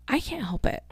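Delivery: high, soft whiny defence; whiny protest. Real, not acted. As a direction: plead innocence up high. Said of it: "Quit yawning in your podcast".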